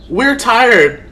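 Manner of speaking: repeated, stressing WE're; tired anger pressing on "We're"; fed up. Real, not acted. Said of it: "this is why I'm pissed the fuck off".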